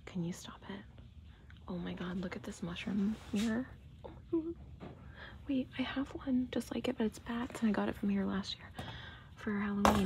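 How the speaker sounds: hushed, half-whispered gushing; talking low. Real, not acted. Shopper spotting a mushroom mirror in a quiet store, hushed. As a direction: murmur it softly so nobody nearby hears. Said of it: "I'm talking kinda low 'cause the store is quiet".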